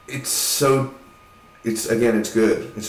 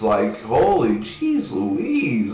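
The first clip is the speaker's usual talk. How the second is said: exasperated; much slower than usual. Real, not acted. Exasperated at the characters.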